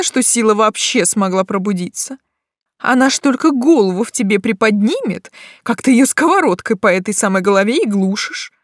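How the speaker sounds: loud, emphatic lecturing; passionate witch mentor. Acted. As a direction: rouse her to set herself free. (горячая наставница)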